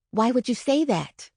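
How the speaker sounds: a touch of gentle concern. Retold or imitated. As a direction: ask kindly, trying not to upset him. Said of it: "I asked as gently as I could".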